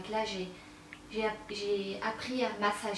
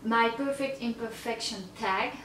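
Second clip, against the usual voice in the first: slow, hammed-up English accent on My Perfect Imperfections; mock English accent; slower than usual. She jokingly reads the tag name with a put-on English accent. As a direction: say the English title in an exaggerated English accent. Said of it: "avec mon magnifique accent anglais".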